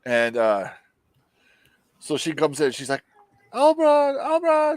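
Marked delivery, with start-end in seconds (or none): 3.5-4.8 high, louder call across the house; hammed-up calling out; calling his name. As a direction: yell for him from the doorway. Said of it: "She starts yelling his name".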